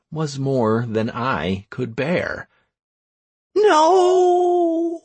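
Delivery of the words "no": high desperate cry; shout. Acted. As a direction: yell it in despair. Hero sees woman falling.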